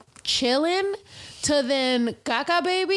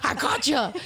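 high, squealed mock taunt; imitated drunken squeal; 6 semitones higher than usual. Retelling own blackout antics to friends, high drunken squeal.

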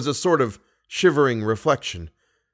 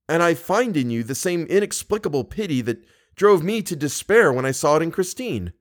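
higher-pitched, mildly distressed protest; exasperated reproach; 6 semitones higher than usual. Acted. Young man challenges the Persian over his pity, exasperated.

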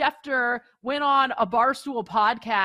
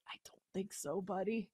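a much softer, dismissive I don't think so; muttered brush-off; 3 semitones lower, 14 dB quieter than usual. Retold or imitated. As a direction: quietly wave off an overexcited friend. Brushing off an excited fan.

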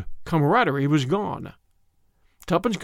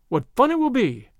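higher-pitched, lightly delighted female voice; young woman character, delighted; 7 semitones higher than usual. Acted. Tuppence answers Tommy's proposal, lightly delighted. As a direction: welcome it happily, pitched up.

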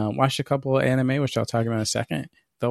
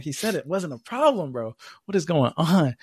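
higher-pitched retold disbelief; incredulous, but not shouted; mock alarm; 3 semitones higher than usual. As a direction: replay being baffled and alarmed. Quoting own disbelief at leak alert.

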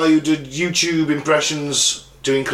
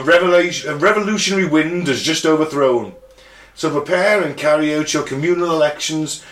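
measured, formal reading of a proclamation; proclamation read aloud. A narrator's reading. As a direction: read it out as a solemn declaration, slowing at the close. Reads out the proclamation.

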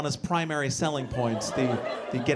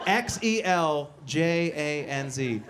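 spelled out slowly; much slower than usual. Shown as a demonstration. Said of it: "called Xeljanz".

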